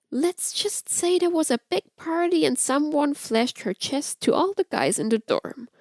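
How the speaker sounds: lightly voiced flirt sharing gossip; Amora's voice. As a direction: tease with a sly edge.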